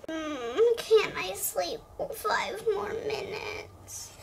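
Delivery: drowsy whispered plea, slow; sleepy whisper. Acted. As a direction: mumble from under the covers. Sleepy child begs to stay.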